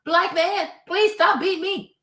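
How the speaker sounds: high, loud mocking whimper of a helpless victim; mock pleading victim. Mocking the producer as a victim, high pleading voice. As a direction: ham up a grown man begging not to be hit. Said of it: "You're just like".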